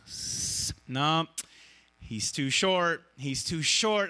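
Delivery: a hint of a ride attendant saying no; lightly voiced attendant. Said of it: "the attendee ... just goes".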